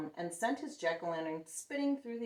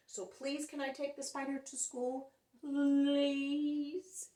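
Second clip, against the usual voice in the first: high, eager begging all in one breath; breathless pleading; 8 semitones higher, 4 dB louder, slower than usual. Acted. Splat begging Mom to take the spider, breathless. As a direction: beg without stopping for air. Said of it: "he added without taking a breath".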